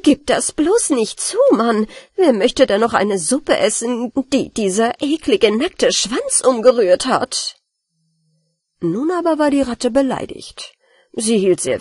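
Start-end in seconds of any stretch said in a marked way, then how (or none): 0.0-7.6 disgusted. Acted. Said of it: "ekelte sich sehr".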